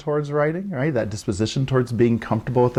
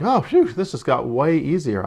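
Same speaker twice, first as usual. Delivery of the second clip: put-on relieved child; 3 semitones higher than usual. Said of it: "A lot of young children are like".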